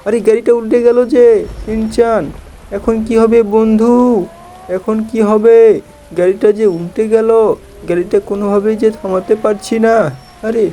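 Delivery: mock panic. Car flipping, panicked cartoon voice.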